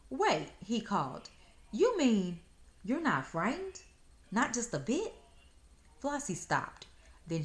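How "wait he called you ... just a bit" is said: high, loud astonished fox; shocked. Acted. Fox calls after girl in shock, high and loud. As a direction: call after her in disbelief. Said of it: "Fox looked shocked".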